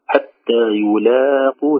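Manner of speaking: حتى يلاقوا, slow, lam light, two-beat madd; light lam, natural madd. Shown as a demonstration. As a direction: draw out يلاقوا gently with a thin lam. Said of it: "ترقيق اللام الممدودة".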